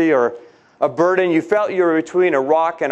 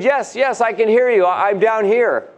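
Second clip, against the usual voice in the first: frightened reply; 5 semitones higher than usual. Acted. Jack answers from the cliff.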